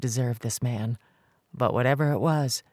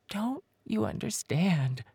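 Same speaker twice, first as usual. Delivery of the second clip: whispered; 6 semitones higher, 5 dB quieter, slower than usual. Acted. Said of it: "she whispered".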